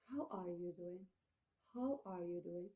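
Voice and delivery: very soft, low, hushed condolence; sympathetic. Shown as a demonstration. Consoling a person who has had a loss, softly sympathetic. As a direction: ask gently, as to someone grieving. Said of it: "sympathy with a person who has had such loss".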